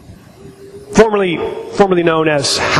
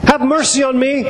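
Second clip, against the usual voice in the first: raised-pitch plea; quoted cry, pitched up without shouting; 6 semitones higher than usual. Acted. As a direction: call for mercy in a higher voice. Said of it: "he cried".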